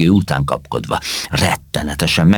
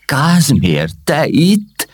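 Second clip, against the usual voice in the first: stammering; 10 semitones higher, 3 dB louder, much slower than usual. Acted. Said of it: "hebegett Csipek".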